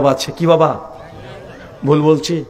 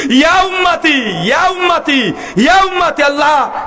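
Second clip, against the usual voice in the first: acted anguished lament, pitched way up; imitating tearful crying out; 8 semitones higher than usual. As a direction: cry out high, imploring, as a preacher acting anguish. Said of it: "কাঁদতে কাঁদতে তিনি চিৎকার করে বলছেন".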